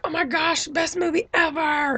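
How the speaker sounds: high squealing fangirl gush; gushing fan. Retold or imitated. Vlogger imitating gushing Facebook fans, high squeal. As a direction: mimic a breathless fan raving about the movie.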